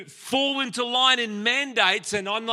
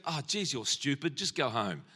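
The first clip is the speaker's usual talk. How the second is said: scornful teacher; 8 semitones lower, 10 dB quieter than usual. Retold or imitated. Teacher dismisses crying child.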